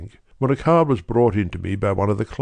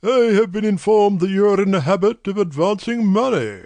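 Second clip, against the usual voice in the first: much higher, deliberate voice of a great nobleman; brusque nobleman; 11 semitones higher than usual. A narrator's reading. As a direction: push through a distasteful errand. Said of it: "with the air of a man who wishes to hurry quickly through a disagreeable task".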